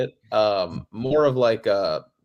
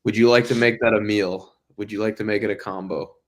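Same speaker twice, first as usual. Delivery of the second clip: singsong fast-food cashier pitch; upselling cashier. Retold or imitated. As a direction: push the combo like a cashier. Mocking McDonald's upsell.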